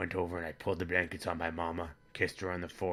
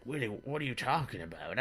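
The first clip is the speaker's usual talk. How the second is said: higher-pitched, puzzled question; mock dumbfounded; 5 semitones higher than usual. Father questioning his son, mock dumbfounded. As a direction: act mildly baffled by what you've heard. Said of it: "I just looked all dumbfounded".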